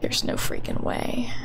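hushed disbelief; disbelieving whisper. Real, not acted. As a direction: breathe it out unvoiced in disbelief.

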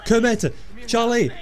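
high, loud mock-desperate shouts; calling out names. Gamer calling out to Kermit and Charlie in the game, loud shouts. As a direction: yell the names across a battlefield.

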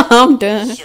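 laughing it out. Real, not acted. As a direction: crack up, give up. Cracks up at the clip.

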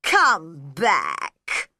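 loud call after a departing Alice. A narrator's reading. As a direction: call to her as she walks off. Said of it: "the caterpillar called after her".

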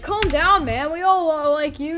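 high-pitched nervous pleading; pleading to calm. Pretend. Crowd pleads with the killer.

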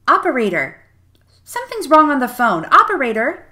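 loud, urgent calls into a dead phone; rising alarm, calling into the receiver. Acted. Neighbor calling dead phone operator.

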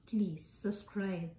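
slow breathy plea, almost silent; pleading whisper. Shown as a demonstration. Vlogger begging new viewers to subscribe, slow whisper. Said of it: "please subscribe because it's your first time".

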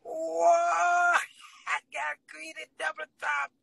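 loud, slow excited exclaim; excited cry. Real, not acted. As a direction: shout it out in joy. Excited about her tattoo.

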